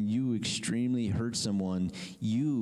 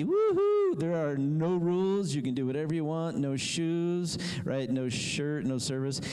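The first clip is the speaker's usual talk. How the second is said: whooping carefree ruler; 4 semitones higher than usual. Retold or imitated. Preacher voicing a rule-free state's ruler, excited whoop. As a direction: cheer like a ruler who scrapped every rule.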